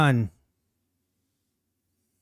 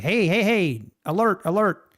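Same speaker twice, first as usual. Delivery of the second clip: hammed-up market maker alert, louder and higher; mock alarm; 4 semitones higher, 4 dB louder than usual. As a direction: raise the alarm that Nutty's out. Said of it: "Then it's like".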